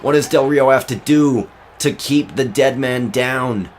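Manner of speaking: punchy wrestling commentary; live play-by-play. Acted. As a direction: call the near fall with punch.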